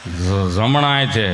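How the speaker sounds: low, slow stutter on the first syllable; stammering friend. Acted. Stammering patient tells the nurse, slow and stuttering. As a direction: stumble on જમણા, low and slow. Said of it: "જીભ જલે, ચોંટે અટકે ને".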